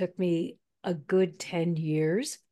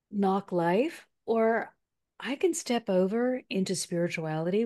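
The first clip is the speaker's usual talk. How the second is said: guided affirmation. Shown as a demonstration. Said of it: "take this moment to say".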